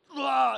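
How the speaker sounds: high-pitched imitation roid-rage "ah"; mock rage yell. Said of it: "He's roid raging. I really don't know. But he's yelling".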